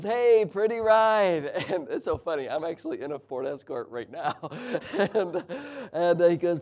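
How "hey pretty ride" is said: high, loud, drawn-out compliment; strange stranger. Retold or imitated. Stranger admiring an old car, oddly drawn out and loud. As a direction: call it out slowly and oddly.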